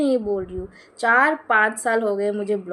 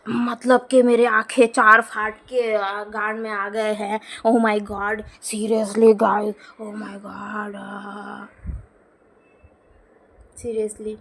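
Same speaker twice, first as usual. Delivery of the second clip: mock reel maker; slower than usual. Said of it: "reel लोग कैसे बना रहे हैं".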